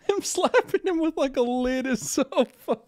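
high-pitched, laughing through the words; cracking up. Real, not acted. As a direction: squeal it out while laughing hard. Cracking up at a clip.

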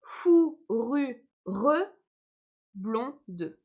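fourrure blonde said slowly, with the final E of blonde voiced; syllables spoken out. Shown as a demonstration. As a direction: blonde said as "blon-de", the E sounded. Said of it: "Donc je prononce". (prononcé en détachant, le e de blonde sonore)

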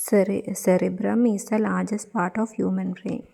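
rote memorising. Acted. Memorising aloud again.

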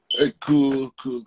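calling out. Real, not acted. Calling a guest into stream.

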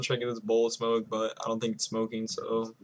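speaking past fingertip; finger at lips. Real, not acted. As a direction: hand resting on chin. Seen 2: hand at chin, fingertip resting on lower lip while speaking.

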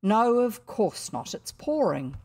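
lightly voiced busy mother; mother refusing. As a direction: shut it down firmly.

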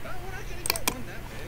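amused surprise. Real, not acted. Parent to the kids at a huge pumpkin, high and fast in amused surprise. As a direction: blurt it out, delighted by the giant pumpkin.

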